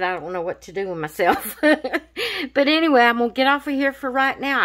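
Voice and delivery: fast laughing rush. Real, not acted. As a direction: rattle it off through laughter. Laughing excitedly signing off.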